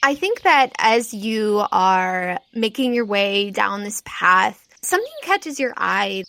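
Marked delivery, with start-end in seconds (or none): none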